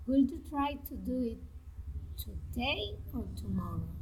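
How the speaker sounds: first option up, last option down, as in "today or tomorrow"; rise then fall. Shown as a demonstration. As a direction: lift "five", "morning", "today", then drop on "six", "night", "tomorrow". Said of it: "rising and falling intonation".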